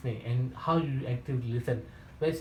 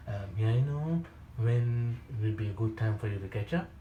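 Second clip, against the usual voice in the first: gentle soothing tone; 3 semitones lower than usual. Shown as a demonstration. Sales trainer showing the gentle callback, soothing. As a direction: demo the right way, calm and kind. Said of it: "you notice my tone is very, very gentle, very soo-, soothing".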